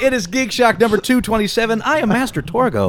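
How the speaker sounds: talking with mouth full; words round a bite of food. Real, not acted. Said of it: "My mouth is full".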